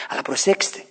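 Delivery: normal talking voice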